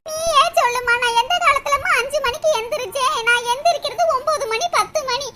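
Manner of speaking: whiny lament ending in sobs; hammed-up weepy grumbling; tearful complaint. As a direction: pour out grievances, then break down crying. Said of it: "அழுகுறத நிறுத்திட்டு".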